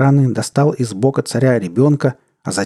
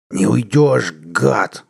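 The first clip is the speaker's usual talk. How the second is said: tense, menacing growl; fierce snarl at a fleeing enemy; much slower than usual. A narrator's reading. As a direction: growl the threat through your teeth. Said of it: "зарычал он".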